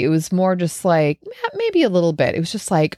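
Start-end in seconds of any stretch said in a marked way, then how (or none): 1.2-2.3 reluctant concession, pitched up high; grudging admission. Retold or imitated. Woman admitting to herself she was slightly angry, grudging. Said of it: "I don't know if I was angry".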